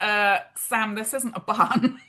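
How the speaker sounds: lightly imitated Scottish partner; subtle Scottish accent. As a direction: put on a slight Scottish lilt, puzzled. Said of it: "in his little Scottish accent".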